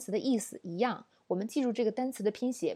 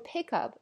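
"pick up" with "pick" higher than "up"; stress on PICK; 3 semitones higher than usual. Shown as a demonstration. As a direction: lean on "pick", drop away on "up". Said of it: "我们不能说pick up".

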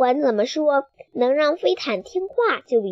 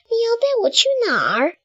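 startled question; 12 semitones higher, faster than usual. Acted. Chick asks flying carpet.

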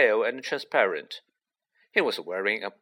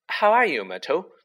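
high, louder, over-cheery greeting; falsely bright; 7 semitones higher, 4 dB louder than usual. A narrator's reading. Girl covers up to the ghost, falsely bright. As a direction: pretend to be pleased to see her. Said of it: "in a falsely bright voice".

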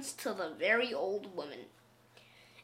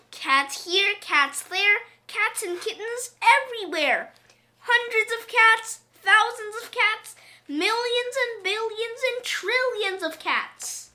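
put-on high, loud, aghast old woman; old woman crying out; 9 semitones higher, 4 dB louder than usual. A narrator's reading. Old woman aghast at endless cats, high loud cry. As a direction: list them in a high, loud outcry. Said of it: "she cried".

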